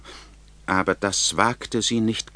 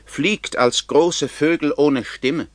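evil queen; 7 semitones higher than usual. A narrator's reading. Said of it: "sagte die böse Königin".

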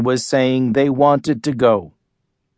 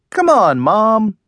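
pleading; 6 semitones higher, slower than usual. A narrator's reading. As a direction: plead with her, pitch up. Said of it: "I pleaded".

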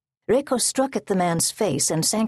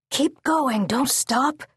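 high, urgent call; 7 semitones higher, slower than usual. Acted. Soldiers calling to comrades in the procession, urgent high call. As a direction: urge them on in a raised voice. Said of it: "Soldiers behind her called to the others".

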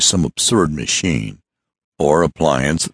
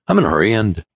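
snappy; 5 semitones higher, much faster than usual. Acted. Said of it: "snappy voice".

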